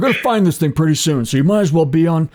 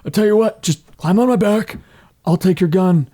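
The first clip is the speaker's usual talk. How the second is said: bluffing cheerfully; 3 semitones higher than usual. Acted. Tina telling Rory to climb onto her back, brisk. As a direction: talk fast to cover the panic. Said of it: "Tina in character".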